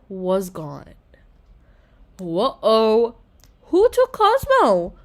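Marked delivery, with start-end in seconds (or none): 2.2-4.9 sudden worry about the missing pet; alarmed. A narrator's reading. Girl discovering her slime pet is gone, alarmed.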